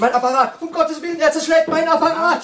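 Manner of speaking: high, loud panicked cry. Acted. Professor cries out as the drunk smashes his apparatus, panicked. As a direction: wail as he smashes your apparatus.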